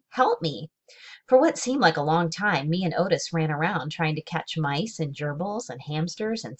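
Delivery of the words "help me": shouted. A narrator's reading. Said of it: "and Otis shouted".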